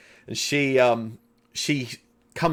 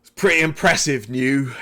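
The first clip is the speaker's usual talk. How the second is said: half-orc opponent; 2 semitones higher, 5 dB louder than usual. Acted. Half-orc gladiator looking over the new challenger, louder acted appraisal. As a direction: call it across as a confident fighter. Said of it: "Claught looks over you and goes".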